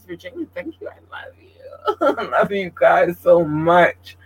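choked up with love, slowing down; holding back tears. Real, not acted. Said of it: "I was trying to hold back the tears".

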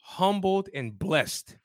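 hoarse from partying all weekend; rough, worn-out raspy voice. Real, not acted. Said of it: "Please excuse my raspy voice".

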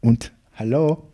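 a hint of a German accent on the greeting; mock German accent. Opening a German doctor's quote in a light German accent. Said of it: "Should I do the German accent?".

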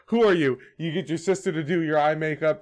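cocky trash-talking wrestler; lightly voiced arrogant promo; The Rock wrestling promo. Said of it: "We got a promo on this undead warlock".

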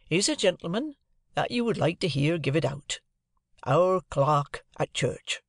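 lightly voiced proud blacksmith; a hint of Joe showing off the clerk. Joe introduces Mr Wopsle.

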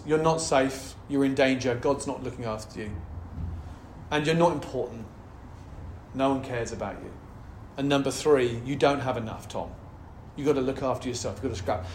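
low, soft voicing of the inner lies; a quiet undermining voice; a hint of a whispered accuser. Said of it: "three big lies in my life".

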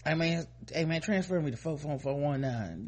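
casual begging inmate; inmate asking a favor. Retold or imitated. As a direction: ask like a smooth-talking inmate. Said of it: "try to get you to send them".

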